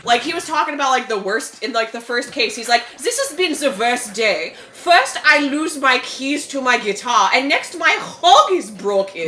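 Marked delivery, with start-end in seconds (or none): 3.0-9.3 loud, slow, hammed-up German complaint; very bad German accent. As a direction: moan dramatically as a fake German. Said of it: "do a very bad accent".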